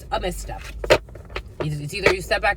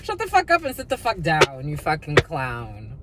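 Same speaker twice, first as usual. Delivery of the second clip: mock telling-off; 3 semitones lower than usual. Telling someone off.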